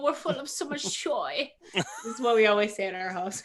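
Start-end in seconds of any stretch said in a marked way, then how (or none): 0.0-1.5 bad, terrible put-on German accent. Saying the family's usual phrase in a terrible German accent. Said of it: "talk with a terrible German accent".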